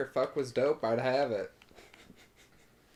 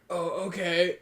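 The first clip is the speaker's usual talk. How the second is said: relieved laugh; 6 semitones higher, slower than usual. Retold or imitated. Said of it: "And they're like".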